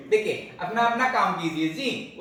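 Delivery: mild rebuke cracking into a laugh; half-laughing mock scolding; scolding while laughing. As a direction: tell him off but let the giggle slip. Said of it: "उसकी अपनी हंसी भी छूट गई".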